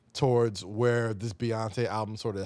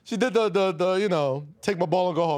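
raised, heated voice, higher; loud excited rant; 7 semitones higher, 6 dB louder than usual. Real, not acted. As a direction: push it out loud and high. Animated rant about a singer pulling sample.

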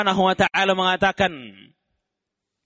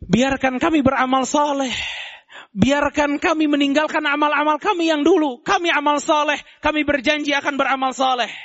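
pleading chorus; 4 semitones higher than usual. Acted. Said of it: "mereka serentak mengatakan".

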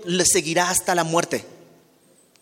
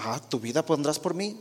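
ironic, mocking question; a doubting, sarcastic "¿tu vida pondrás por mí?"; 4 dB quieter than usual. Shown as a demonstration. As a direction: throw it back with a touch of sarcasm. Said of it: "no creo que haya respondido con ironía o sarcasmo".

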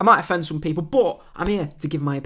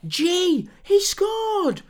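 Martin Tyler scream; much slower than usual. Retold or imitated. Podcaster imitating a memorable football goal call, high scream. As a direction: yell it like a stoppage-time goal. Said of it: "and Martin Tyler screams".

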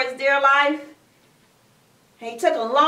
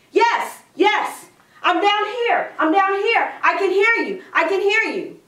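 higher-pitched, urgent repeated replies; eager calling back; 4 semitones higher than usual. Acted. Stranded Jack answering the voice, eager calling. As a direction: call up eagerly, acting relieved.

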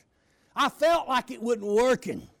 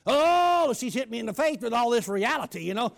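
ordinary talk

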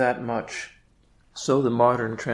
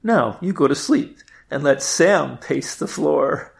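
wife. Acted. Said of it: "turns to Melvin and says".

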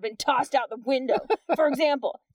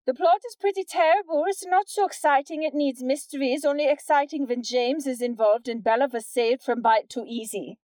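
rushed through in a single breath; all in one breath; 2 semitones higher than usual. Shown as a demonstration. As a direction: read it all without stopping for air. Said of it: "So I'm gonna try and do it in one breath".

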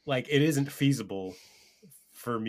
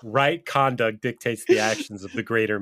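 lofty lecture; 5 dB louder than usual. Acted. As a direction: preach it like a lofty moral lesson. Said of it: "giving me might makes right speech".

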